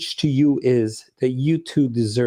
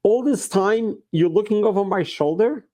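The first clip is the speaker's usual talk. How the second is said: anguished cry out; 8 semitones higher than usual. Retold or imitated. Abandoned man questions God in his crisis, crying out. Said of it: "he screams out".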